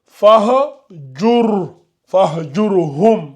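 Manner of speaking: very slow fahjur with a heavy ra; emphatic ra. Shown as a demonstration. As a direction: fahjurhum drawn out with a thick r. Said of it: "il est emphatique".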